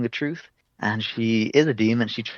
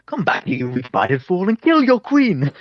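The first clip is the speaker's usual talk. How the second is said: high, slow mock echo rising to a squeak; a mocking high-pitched copy of the demon's order; mock mimic; 8 semitones higher, 4 dB louder than usual. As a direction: parrot her command in a squeaky voice. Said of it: "Finnick's like".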